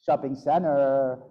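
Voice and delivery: put-on slow Valley girl "Shopping center" with a slurred R; Valley girl accent. Shown as a demonstration. Teacher imitating a Valley girl, slow Valley girl accent. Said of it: "how would they pronounce it".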